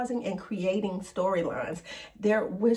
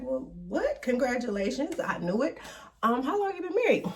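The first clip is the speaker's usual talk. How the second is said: higher-pitched, acted-out surprised congratulations; mock surprise; 4 semitones higher, faster than usual. Porsha hears that she was married, mock surprise. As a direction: imitate a friend caught off guard, pitched up.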